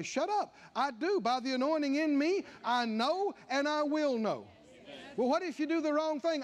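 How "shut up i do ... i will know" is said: a touch of defiance, snapping back; defiant retort. Shown as a demonstration. Believer silencing doubting feelings, defiant. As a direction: tell your doubts off firmly.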